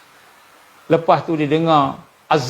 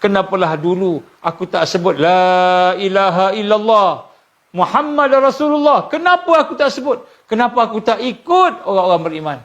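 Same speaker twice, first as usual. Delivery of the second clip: regretful soul; 3 semitones higher than usual. Acted. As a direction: wail it as a soul full of regret. Voicing the regretful dead. (ratapan roh yang menyesal)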